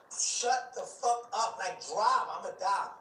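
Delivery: slow, high, dragged-out command; retold desperate command, slow; slow desperate order. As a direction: spell it out to the driver word by word. Snapping at the driver.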